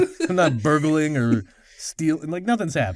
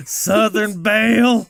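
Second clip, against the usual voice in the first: worn-down operator; 4 semitones higher, 4 dB louder, much slower than usual. Retold or imitated. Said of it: "getting worn down more and more".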